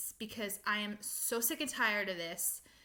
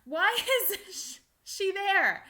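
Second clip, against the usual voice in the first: higher and louder, imitating a baffled demand for answers; exasperated demand; 7 semitones higher, 4 dB louder than usual. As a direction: play the kid confronting the parents, fed up. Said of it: "I'm gonna be like".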